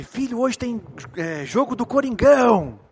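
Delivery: father thrilled about the Corinthians game, drawing it out; excited father. Retold or imitated. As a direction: savour every word of the match news.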